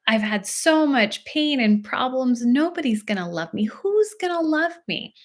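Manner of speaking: lightly voiced despairing child, lifting on the final question; hint of a child's self-pitying lament; upset child. Child telling a parent nobody will love them, mildly acted despair. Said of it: "started telling you all of these things about themselves".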